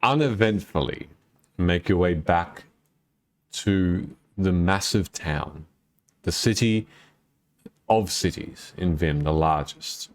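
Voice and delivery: slow, measured scene setting; game master narration. Acted. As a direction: set the scene slowly for the players. Game master describing the travel.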